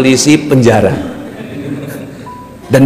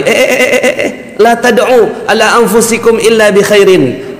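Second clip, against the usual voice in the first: hushing Prophet; 7 semitones higher than usual. Retold or imitated. Nabi hushing the mourners.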